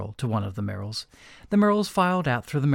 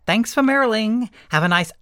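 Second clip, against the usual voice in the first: high, smug villain voice; a hammy sneering villain; villain character voice; 10 semitones higher, 7 dB louder than usual. Acted. Voiced villain Mister Merrill.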